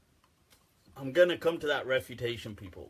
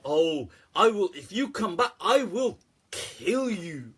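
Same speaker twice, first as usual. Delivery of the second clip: hammed-up threat, last words drawn out; mock threat; 2 semitones higher than usual. Retelling what they say to the jinn, mock threatening. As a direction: threaten with a slow, stretched finish.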